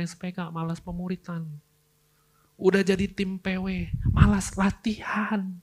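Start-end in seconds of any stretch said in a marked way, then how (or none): 4.1-5.5 whisper. Acted. Mocking lazy worship team.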